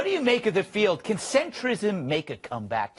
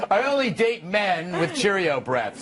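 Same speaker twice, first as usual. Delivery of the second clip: mock quote. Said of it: "says Kat".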